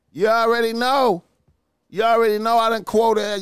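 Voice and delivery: loud, high hype; pumped shout-out; hyped up. Real, not acted. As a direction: fire up the chat. Hyped reaction to a comment.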